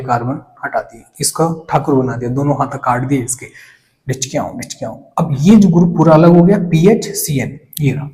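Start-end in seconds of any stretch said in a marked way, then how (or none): 4.1-5.0 soft, low mock zapping noise; playful sound effect. Teacher jokingly cutting both hands off a molecule, playful sound effect. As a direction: toss off a quiet cartoon attack sound. Mimes chopping off the molecule's arms.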